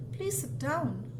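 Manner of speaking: an exclaimed, insistent sit down; exclamation. Shown as a demonstration. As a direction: say it as an exclamation, pushing it up. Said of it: "that's with an exclamation".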